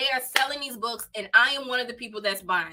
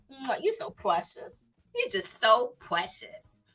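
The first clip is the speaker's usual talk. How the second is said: tender cooing; 5 dB quieter, slower than usual. Real, not acted. Cooing over her son.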